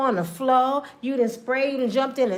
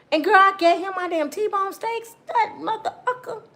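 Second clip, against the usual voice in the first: high, laughing through tears; laugh-crying; 9 semitones higher than usual. Acted. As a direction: laugh and cry at once. Woman laugh-crying over the steaks.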